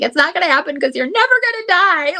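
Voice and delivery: high, fast, teasing daughter voice; imitating her daughter, quick and high; daughter's protest. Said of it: "and she's like".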